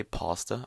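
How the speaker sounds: "pasta" with an AW in the first syllable; pawsta pronunciation. Shown as a demonstration. Telling viewers how he says it, "pasta" as "pawsta". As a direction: say "pasta" as PAW-sta. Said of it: "I say it like A W P A W S T".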